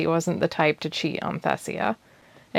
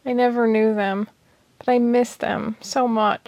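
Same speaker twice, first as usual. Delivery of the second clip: higher, aching tearful voice; voice tearing with pain; 5 semitones higher than usual. Acted. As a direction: let the pain tear through. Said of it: "her voice tearing with pain".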